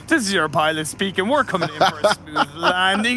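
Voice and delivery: mock airline pilot announcement. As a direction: speak like a pilot on the intercom. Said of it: "a pilot's voice, like".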